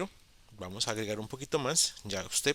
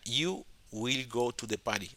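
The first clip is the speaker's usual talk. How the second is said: lectura modelo. Shown as a demonstration.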